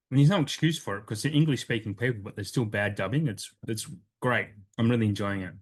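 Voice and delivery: talking while chewing gum; words round a wad of gum. Real, not acted. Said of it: "I just put gum in my mouth".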